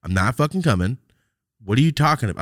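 boosting the retold anger slightly; upset retort. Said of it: "I was getting upset texting him".

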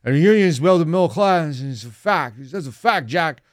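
lightly mock a rambling old speaker at a rally; hammed-up mumble of a president at a picket line; mumbling Joe Biden. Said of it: "he said in a mumbled tone through a bullhorn".

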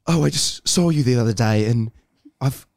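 lightly put-on, romantic English accent; imagined English accent. The England people imagine, confessing love, mild English accent. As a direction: play a polite English suitor lightly. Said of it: "what you think England is like".

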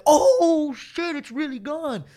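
high and loud through a laugh; slow, high, laughing amazement; laughing disbelief. Retold or imitated. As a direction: laugh out the shock of seeing it. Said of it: "He's like".

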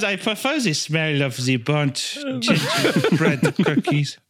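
put-on lightly German-accented confession; mock-innocent baker voice; Hitler as baking vlogger. Baker confessing a taste for burnt cookies, mildly coy German accent.

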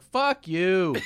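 high, loud mock shout; imitated outburst yell. Kid with Tourette's at mass, imitated high shout. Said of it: "he's just screaming shit".

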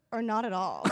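put-on Valley Girl accent. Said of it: "I'll Valley Girl it for Richard".

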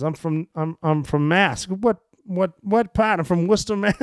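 high-pitched imitated Boston back-and-forth; Boston accent. Two soldiers compare hometowns, imitated Boston accent. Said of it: "you can hear his Boston accent".

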